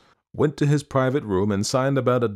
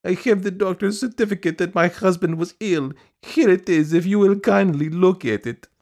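high, piteous pleading; plaintive, insistent supplicant; pitiful piping; 11 semitones higher, 5 dB louder than usual. A narrator's reading. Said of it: "piped Madame Stuchkin in a pitiful voice".

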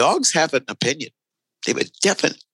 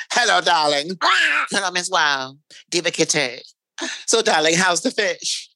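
Tuna; 4 semitones higher than usual. Retold or imitated. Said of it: "I turn into a singer's sister".

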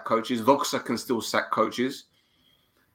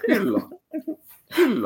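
Greek accent; 10 semitones higher than usual. Shown as a demonstration. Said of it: "I'm trying to cater to them".

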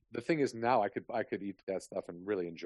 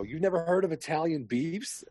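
shocked question; 7 semitones higher, 6 dB louder than usual. Retold or imitated. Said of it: "And they go".

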